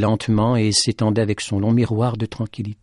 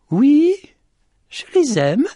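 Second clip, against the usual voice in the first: very high, raised voice; calling back; 6 dB louder, slower than usual. Acted. The lady answers Petit Jean about her hens, calling back.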